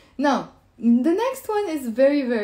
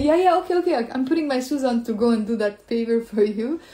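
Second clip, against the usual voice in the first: sarcastic agreement. Acted. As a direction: feign going along with the favor. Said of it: "now this is pure sarcasm".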